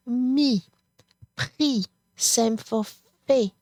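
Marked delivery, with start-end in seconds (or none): 0.1-1.9 Mi and pris said with no final S sound; silent final S. Shown as a demonstration. Teacher shows students the final S stays silent. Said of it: "you do not pronounce this final S". 3.3-3.5 fait said with no T at the end; silent final T. Shown as a demonstration. Teacher shows students the final T of fait stays silent. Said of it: "You do not pronounce that T".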